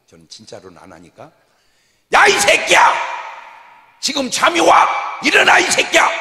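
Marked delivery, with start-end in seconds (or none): 2.1-6.1 아주 높고 크게 고함치는 욕; 자는 사람을 깨우듯 버럭; 연극으로 욕하기. Acted. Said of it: "연극으로 하겠습니다". (자는 사람에게 버럭 욕하는 연기)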